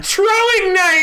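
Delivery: "Throwing" as a high, drawn-out "troing"; dropped H. Acted. Player joining the joke about the missing H, H dropped. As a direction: sing out "Throwing" with a T for TH. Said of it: "There's an H in throwing".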